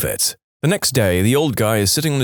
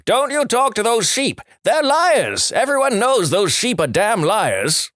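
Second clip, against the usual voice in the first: higher, outraged farmer yelling; furious shout; 11 semitones higher than usual. Acted. Farmer warning the ventriloquist off, outraged high yell. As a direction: blurt it out red-faced, defending the sheep. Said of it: "face goes bright red and shouts".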